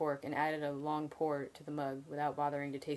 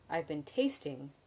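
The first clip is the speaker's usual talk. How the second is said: tasting leaned on and slowed; stress on tasting; slower than usual. A narrator's reading. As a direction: draw out the word tasting with weight. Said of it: "emphasizing the word".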